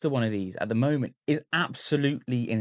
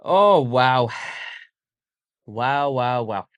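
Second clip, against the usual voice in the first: loud amazed wow; 6 dB louder, much slower than usual. Real, not acted. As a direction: gasp out wow at the sight. Amazed at the light-up.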